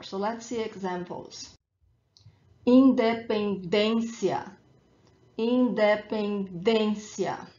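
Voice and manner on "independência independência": slow independência, in-de-pen-DÊN-cia; stress on accented ê. Shown as a demonstration. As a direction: model independência slowly, hitting DÊN. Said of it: "the emphasis is where the accent is".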